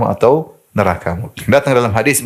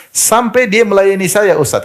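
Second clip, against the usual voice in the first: high, slow retelling of a grateful husband; husband's words retold; 9 semitones higher than usual. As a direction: voice the widower's wonder, pitched up. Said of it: "kata dia". (suami bercerita dengan suara tinggi)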